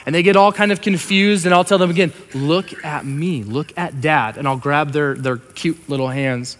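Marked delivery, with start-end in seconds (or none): 2.3-4.4 slow, gentle insistence; steady a crying child, word by word; soft-edged parental firmness; calming dad. Retold or imitated. Dad soothing crying daughters.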